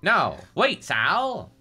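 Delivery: acted alarmed objection; urgent interruption. A narrator's reading. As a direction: stop your partner quickly. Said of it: "Garland interrupted".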